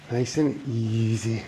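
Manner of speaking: slow, gentle and soft. Shown as a demonstration. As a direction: ease it out slowly and softly. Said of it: "let's slow it down".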